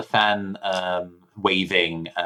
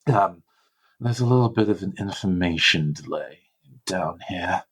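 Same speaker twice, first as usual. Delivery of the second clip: weary service robot, lingering on words; bored android; 2 semitones lower than usual. Acted. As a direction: drag out the explanation as if it's a great bother. Let's do that in character voice.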